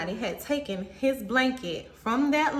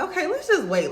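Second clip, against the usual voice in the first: high, louder quote of herself; raised-voice retold urging; insistent suggestion; 9 semitones higher, 5 dB louder than usual. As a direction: pitch it up and push it, retelling a plea. Quoting her own plea to wait.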